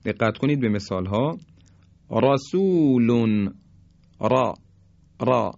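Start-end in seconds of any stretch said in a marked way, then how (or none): 2.1-4.5 رسول slowly, opening on a thick, full R; heavy ra. Shown as a demonstration. Teacher demonstrating to learners, رسول and را with heavy ra. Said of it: "این درشتی را هست". 5.2-5.5 را with a thick, full R; heavy ra. Shown as a demonstration. Teacher isolating the letter for learners, را said heavy. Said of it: "این درشتی را هست".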